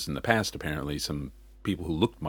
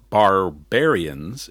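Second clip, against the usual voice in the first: New Zealand accent; 7 dB louder, much slower than usual. Shown as a demonstration. Explaining rugby nickname, demos New Zealand accent. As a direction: say barbarians the Kiwi way, R barely there. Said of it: "in the New Zealand accent".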